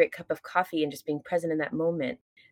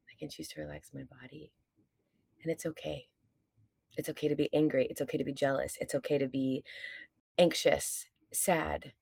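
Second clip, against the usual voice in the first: soft affirmation; 2 semitones lower, 5 dB quieter than usual. Shown as a demonstration. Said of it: "and then you say".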